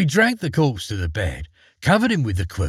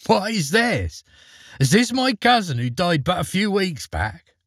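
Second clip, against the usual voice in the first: put-on lightly raised, amused young man; a hint of a cheeky boy laughing at the coffin; Eric's voice; 6 semitones higher than usual. A narrator's reading. Eric voiced in story.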